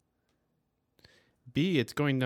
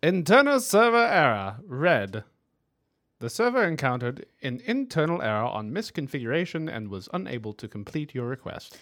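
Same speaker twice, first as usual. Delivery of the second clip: raised, loud announcement settling down; formal read-out; 3 semitones higher, 6 dB louder than usual. Acted. Co-host reading failed web page aloud, mock formal. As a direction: read an error message like an announcer.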